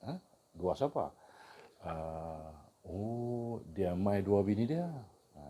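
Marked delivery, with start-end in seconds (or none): 3.7-4.8 Kedah dialect phrase; casual northern Malay dialect; kedah malay accent. Shown as a demonstration. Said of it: "maksudnya, dia datang dengan".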